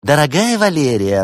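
high, loud sweet address; sugary affection. A narrator's reading. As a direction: coo it as a prelude to nastiness. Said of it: "Антуанетта ласково улыбнулась".

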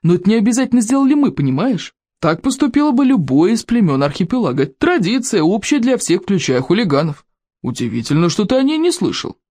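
lightly voiced, lilting condescension; amused chief feigning surprise; smug berserker chief. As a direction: explain it with mocking, high-swooping tune.

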